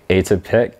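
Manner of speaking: "Atypic" as AY-tuh-pick, rising at the end; alternative pronunciation. Shown as a demonstration. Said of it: "you kinda pronounce it like".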